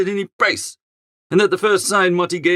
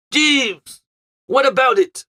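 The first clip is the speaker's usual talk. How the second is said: raised, higher call across the flat; howling for the butler; 7 semitones higher, 3 dB louder, slower than usual. Acted. Bertie calling Jeeves from the next room, a raised howl. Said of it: "I howled for Jeeves".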